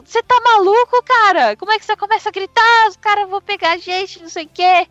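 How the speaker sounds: freaking out at a reckless partner; alarmed hissing protest. Retold or imitated. Bandits panic at Polegar's shouting, high and alarmed.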